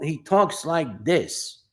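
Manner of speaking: slow, drawn-out character impression; lightly voiced old-school boxing manager; Cha Cha. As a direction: imitate a boxing manager, stretching each word. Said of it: "I was imitating this guy named Cha Cha".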